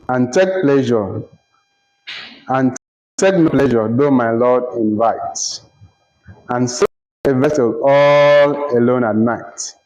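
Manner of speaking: slow, measured reading of an oath in verse; verse recitation. Acted. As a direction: recite the lines slowly, pausing at each line end.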